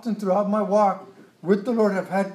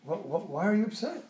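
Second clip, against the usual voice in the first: softer, placating tone; calming; 5 dB quieter than usual. Retold or imitated. Gideon calming the jealous men of Ephraim, soft and placating. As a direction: talk an angry crowd down gently. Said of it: "he very wisely calmed the".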